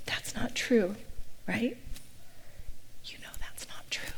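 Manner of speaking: whispered reassurance into the ear; soft, hushed, private correction; Kevin. Retold or imitated. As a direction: lean close and whisper it tenderly. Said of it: "Kevin would lean into my ear".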